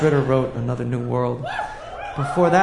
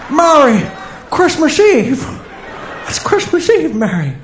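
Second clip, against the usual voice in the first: put-on booming old-time radio announcer, higher and louder; 1940s radio announcer; 7 semitones higher, 5 dB louder than usual. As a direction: announce it like a vintage radio host. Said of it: "Try that again".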